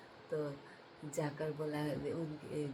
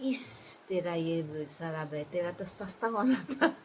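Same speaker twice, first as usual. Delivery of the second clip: mock scolding; 5 dB louder than usual. Angry deity scolds lying drunk.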